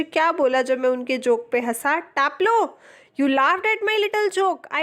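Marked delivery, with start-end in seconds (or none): 2.0-4.8 a hint of a gentle, higher schoolmaster voice, slow; mild imitation of the teacher, gentle and thoughtful; gentle old teacher. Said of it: "उनकी वाली कोमल फटी हुई आवाज़ में बोलता है".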